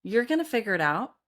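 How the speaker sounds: calm yourself down gently; reassuring self-talk. Retold or imitated. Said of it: "I'll be like".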